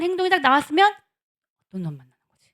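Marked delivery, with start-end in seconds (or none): 1.7-2.5 low, suspicious aside to oneself; suspicious inner thought. Acted. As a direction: wonder it privately, pitched well down. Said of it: "이렇게 그냥 생각이 난다는 거예요".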